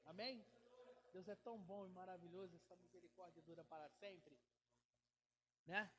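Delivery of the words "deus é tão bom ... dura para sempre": cicho i nisko powtórzone, „Deus é tão bom” spokojnie; ciche, niskie powtórzenie dla wiernych; soft echo. Acted. Repeats line softly, deeply.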